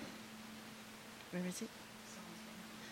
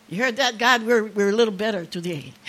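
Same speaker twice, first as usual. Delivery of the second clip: louder, delighted call up to God; joyful echo to God; 5 dB louder than usual. Real, not acted. Grandmother proudly repeats the news to God, louder and delighted. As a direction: crow it happily to heaven.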